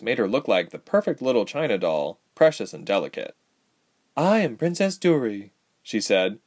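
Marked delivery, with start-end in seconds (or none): 4.2-5.5 higher-pitched royal introduction; lightly acted young royal voice; young princess, formal. A narrator's reading. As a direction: announce your title with poise.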